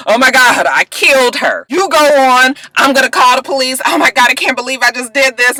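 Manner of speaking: imitated frantic confession; acted panic. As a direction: play it as frantic disbelief. Acting out Asher panicking after killing.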